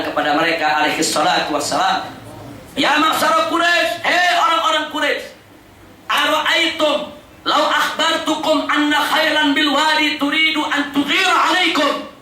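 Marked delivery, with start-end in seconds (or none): 2.7-12.1 calling out. Retold or imitated. Prophet addresses the Quraysh from the hill, calling out. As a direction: retell a hilltop proclamation to the tribe. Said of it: "Nabi teriak bilang".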